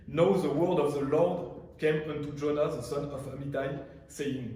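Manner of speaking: slow, careful English read with a French accent. Real, not acted. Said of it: "désolé pour mon ac-, mon accent". (anglais lu lentement avec un accent français)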